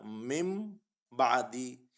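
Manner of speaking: मिम बादी with a held m before the ba; iqlab reading. Shown as a demonstration. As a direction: hum the meem briefly in मिम बादी. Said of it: "पढ़ने का तरीका".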